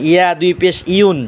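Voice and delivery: "ইয়া" and "ইউন" with mid-tongue to palate; "ইউন" begun with a y glide from the palate. Shown as a demonstration. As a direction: raise the middle of the tongue for "ইউন". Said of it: "উচ্চারণ হবে জিব্বার মাঝখান".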